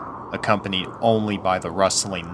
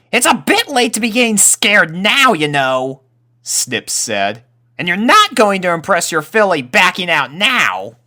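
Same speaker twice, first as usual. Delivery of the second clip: high, louder colt voice, needling; teasing young colt; 12 semitones higher, 8 dB louder than usual. Acted. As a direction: poke fun at a scared friend. Snips teasing Rumble.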